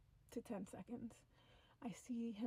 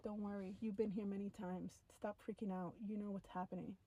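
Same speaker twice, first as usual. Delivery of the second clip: softer, calming retold voice; reassuring; 4 dB quieter than usual. Alien calms the abducted narrator, softly reassuring. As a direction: settle a frightened person down quietly.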